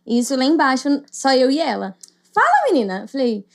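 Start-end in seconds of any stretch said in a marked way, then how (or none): 2.3-3.0 sister's teasing call. Retold or imitated. Sister teasingly calls her over.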